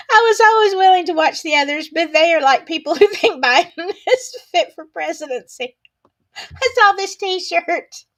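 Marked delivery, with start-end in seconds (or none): 0.1-5.8 laughing read. Real, not acted. Streamer reading a viewer's joke, laughing loudly. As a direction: read it high and loud through laughter.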